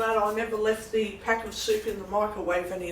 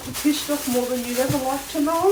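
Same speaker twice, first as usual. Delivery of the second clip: loud angry outburst; 7 semitones higher, 4 dB louder than usual. Real, not acted. Fuming about the price guide.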